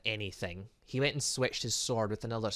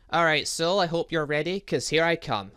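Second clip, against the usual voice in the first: battle cry; 4 semitones higher, 8 dB louder than usual. Acted. Charging into the fight.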